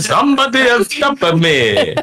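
put-on Italian accent, broken English. Retelling a wedding, the speaker quotes a man's outburst in Italian-accented broken English. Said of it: "He's like in a broken like English, like Italian".

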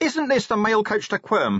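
shrill, very high shouted yell. Clinging to the step of a moving coach, a man shouts his question, shouted. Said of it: "he shouted".

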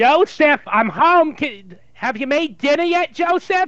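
Yiddish-inflected accent. The speaker practices an accent, calling out to Joseph, in a put-on Jewish accent. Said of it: "trying to work on the Jewish accent".

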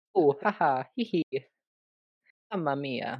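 slow, uneasy nervous giggle rising into an exclamation. Acting out how Mario would react: Mario laughing nervously. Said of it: "I assume Mario would laugh nervously".

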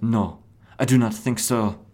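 put-on French accent. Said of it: "French accent".

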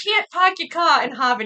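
broad Boston accent, laid on thick. Asked to do the accent and say park your car: Boston accent. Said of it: "Do the accent, do the accent. Say you're gonna park your car".

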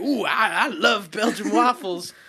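put-on slow, drawled Texas accent. Joking about the Illuminati at a hotel breakfast: imitating George Bush. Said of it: "He's like".

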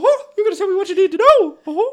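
very high, loud cartoon squeak. Commenting on an episode, the speaker voices a scene in Mickey Mouse voice. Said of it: "imagining it in Mickey Mouse voice now".

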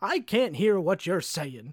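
put-on swooping animated-film style cartoon old man voice. Retelling what a man said right after him: cartoon old man voice. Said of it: "like a Disney old man that you'd see in".

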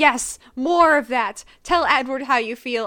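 booming, pushy, loud, intense drama-teacher voice. Picturing someone coaching a dramatic monologue, imitating an intense acting director. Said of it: "He sounds like such a very intense, like, acting director".

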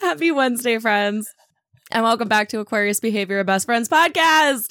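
talking while giggling and laughing. Opening the podcast intro while giggling too much: giggling while talking. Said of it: "I can't even get through our intro 'cause I'm giggling too much".

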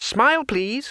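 sunny, bright, very high voice. Twoflower readies the golden disc and speaks to Rincewind, brightly. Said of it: "and said brightly".

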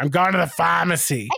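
put-on broad Boston accent laid on heavy. Retelling what a nurse always said: imitating Nurse Deb's Boston accent. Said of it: "that thick Boston accent".

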